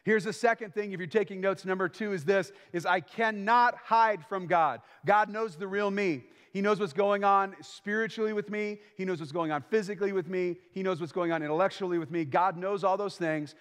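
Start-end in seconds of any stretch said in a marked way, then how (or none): 2.9-8.8 preaching emphasis. Acted. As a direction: lean hard on each word about God.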